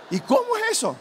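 pregunta aguda e insistente del muchacho; muchacho curioso. Retold or imitated. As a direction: mucho más agudo, como un joven ansioso. (muchacho insistente, con voz aguda)

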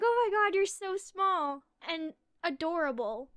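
high, loud retold puppy gushing. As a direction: gush over a tiny adorable puppy. Retold gushing over tiny puppy.

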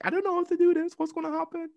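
high, panicked squeak; freaking out. Retold or imitated. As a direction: panic on the phone to a friend, pitch shooting up. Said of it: "I was freaking out for hours".

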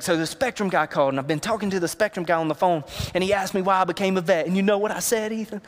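eager, building retelling; excited. Retold or imitated. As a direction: pitch climbing toward the closing question. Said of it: "He's so excited".

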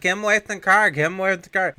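high, loud frantic plea; hammed-up panic in a high voice; mock panicked girlfriend. Girlfriend urging driver to act, high mock panic.

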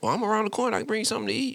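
high, sweet, eager voice; overly nice suitor. Retold or imitated. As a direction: lay on the niceness, lightly high.

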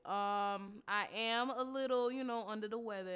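stuffy, blocked nose voice; congested. Real, not acted. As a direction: speak through a congested nose. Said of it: "As you can hear in my voice, I just sound a little congested".

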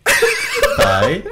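"Pho" high and loud, tone overshot; botched tone. Shown as a demonstration. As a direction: overdo "Pho" in a failed copy. Failed copy, then laughter.

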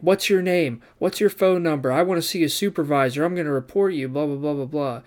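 hammed-up complaining, tailing into dismissive blahs; imitated fit. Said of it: "starts throwing a fit".

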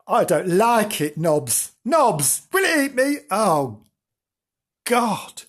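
high pleading kitten voice; frightened kitten. Acted. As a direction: beg the dog for help. Kitten scared of car.

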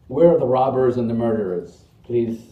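put-on loud British-accented host calling out; lightly British, playing a comic devil; imitated British accent. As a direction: call the roll with a mock British accent. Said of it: "he has his British accent".

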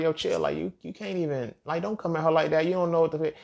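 high-pitched, urgent telling-off; retold protest. Telling classmate off for judging waitress, high protest. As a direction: step in to defend someone.

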